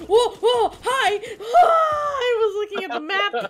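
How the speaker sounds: very loud, high surprised cries; high loud shocked exclaims; startled yelling. Real, not acted. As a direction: caught off guard and shouting. Surprised by enemy.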